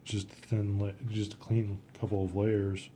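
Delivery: talking with a brush in mouth; words around a brush held in mouth; mouth full. Real, not acted. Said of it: "I have my other brush in my mouth".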